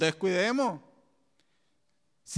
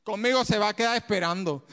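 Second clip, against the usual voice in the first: louder, chuckling boast; laughing defiance; 5 dB louder than usual. Real, not acted. Preacher mocking Satan to the congregation, laughing. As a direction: laugh at the enemy's waiting.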